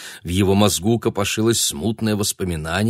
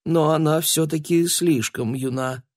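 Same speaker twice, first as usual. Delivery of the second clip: firm insisting; 8 semitones higher than usual. Acted. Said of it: "стоял на своём епископ".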